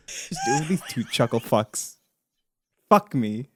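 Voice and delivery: low, soft sardonic grumble; bitter self-mockery. Podcaster replaying the advice that got them here, bitterly mocking. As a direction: grumble it under your breath, disgusted with yourself.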